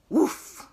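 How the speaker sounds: breathy bark; dog woof. Retold or imitated. Reviewing the sounds, breathy woof. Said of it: "let's see if I got the sounds right".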